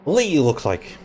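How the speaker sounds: put-on old-time newsreel announcer voice; 1940s voice. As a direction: put on a vintage broadcaster voice. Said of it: "I went very nineteen forties voice then".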